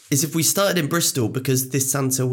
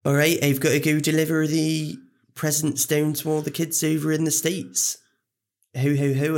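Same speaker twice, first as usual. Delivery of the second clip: put-on Bristolian Santa; attempted Bristolian accent; 3 semitones higher than usual. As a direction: have a reluctant go at a Bristolian accent. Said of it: "Can you do one?".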